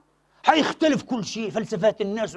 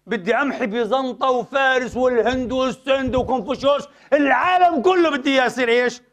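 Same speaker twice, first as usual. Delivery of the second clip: mock grandiose fanatic, laughing; mocking zealot; 3 semitones higher than usual. Mocking fundamentalists dreaming of conquering the world. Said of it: "يقولون".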